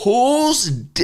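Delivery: put-on sharp high Boston accent, cut off. Boss repeating question in Boston accent. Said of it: "this is a Boston accent".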